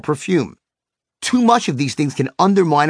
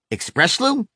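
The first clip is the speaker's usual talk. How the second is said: higher, disbelieving question; incredulous; 6 semitones higher than usual. Retold or imitated. Speaker repeating the inventor's product name, higher and disbelieving.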